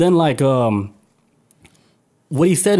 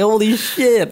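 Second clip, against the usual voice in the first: high startled exclaim; mild stunned holy shit; mock shock; 8 semitones higher, much slower than usual. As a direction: gasp it out high. Retold startled reaction.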